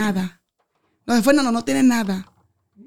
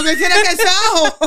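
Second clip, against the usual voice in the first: laughing retort; 3 semitones higher than usual. Retold or imitated.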